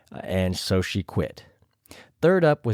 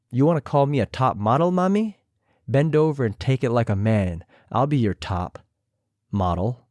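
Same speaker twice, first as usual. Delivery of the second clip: imitating Raven. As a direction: purr the taunt at a rival queen. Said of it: "I tried my best to imitate them".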